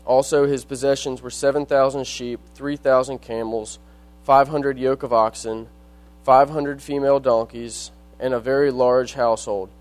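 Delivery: measured reading of Bible verses; scripture reading. Acted. Reads scripture aloud.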